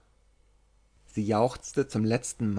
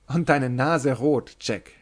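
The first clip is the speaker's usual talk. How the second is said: laughing tease; 4 semitones higher, 4 dB louder than usual. Acted. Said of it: "rief Kitty lachend".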